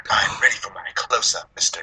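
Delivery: put-on breathy old-Hollywood starlet purr; lightly voiced fifties starlet; fifties movie dame. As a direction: vamp it like a fifties screen siren. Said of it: "they always talk like they from the fifties".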